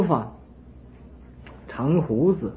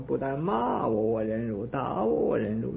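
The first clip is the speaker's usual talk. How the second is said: calm hermit; 5 dB quieter than usual. Acted. Hermit calmly answers king.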